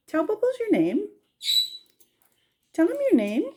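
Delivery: high sing-song coaxing voice. Real, not acted. Owner urging Malibu to talk to Bubbles, high coaxing. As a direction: lift it high to coax the bird.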